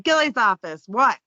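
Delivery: lightly mock-curt phone answer; brusque receptionist. Receptionist answering calls at the law firm, playfully curt. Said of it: "call my firm and they'll be like".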